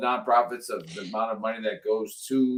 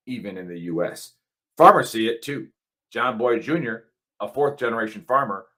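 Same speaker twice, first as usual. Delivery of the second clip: punchy radio ad delivery; a host reading an ad for the listeners; sponsor ad read. Acted. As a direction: sell the survival food like a radio spot. Reads sponsor ad.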